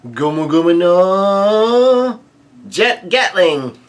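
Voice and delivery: high, long-held battle cry; attack cry. A narrator's reading. Luffy unleashes an attack on Prometheus, crying out its name. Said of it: "he unleashes an attack".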